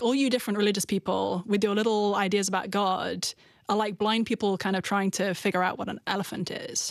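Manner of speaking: ordinary delivery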